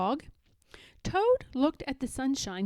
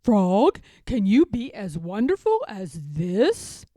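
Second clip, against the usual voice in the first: boastful call; 3 semitones lower, 6 dB louder than usual. Acted. Toad boasting while dancing.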